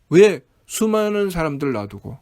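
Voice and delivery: acted aggrieved questioning; mildly hammed-up complaint at being singled out; resentful protest. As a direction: press each question like an imitated grievance. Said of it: "라고 원망하죠".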